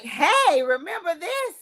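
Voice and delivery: high, bright mock phone voice chirping Hey; a cheery phone app popping up a memory; mock Apple reminder. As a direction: play the cheery app nudging her. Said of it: "Apple ... be like".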